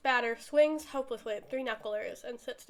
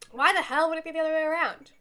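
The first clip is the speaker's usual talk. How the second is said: raised, louder incredulous comeback; indignant retort; 4 semitones higher, 6 dB louder than usual. Acted. Retorting about who sits in whose lap, indignant. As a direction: throw the question back indignantly.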